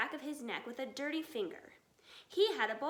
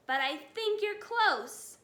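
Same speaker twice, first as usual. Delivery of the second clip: higher, louder, slow shout; 7 semitones higher, 6 dB louder than usual. A narrator's reading. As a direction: call it over the noise. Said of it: "shouted Bogus".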